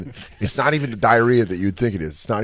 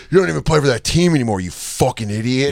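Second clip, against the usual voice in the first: louder, higher, fast mock taunt; mock yell; 3 semitones higher, 3 dB louder than usual. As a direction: jeer at her jersey like the fan. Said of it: "He goes".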